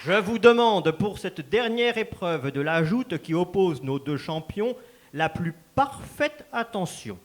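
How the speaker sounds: grand, formal announcer delivering the joust rules; ceremonial announcer. Acted. Master of ceremonies announcing the final joust to the crowd, formal and grand. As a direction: proclaim it to the whole hall like a herald.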